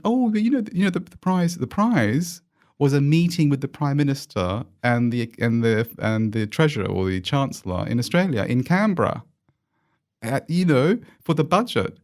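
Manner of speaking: high, smug posh Australian accent, imitated; mock posh Australian accent. Private school student bragging about the prize, high mock posh Australian accent. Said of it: "he went".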